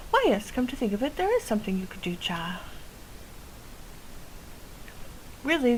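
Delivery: a hint of a chatty old witch with a quirky accent; folksy witch voice. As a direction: boast about her brew like a village witch. Witch NPC.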